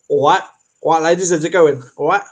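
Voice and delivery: mock cockney lad greeting the ladies; a lightly voiced cockney geezer saying hello; cheery cockney lad, only lightly put on. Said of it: "why would you go in as a cockney".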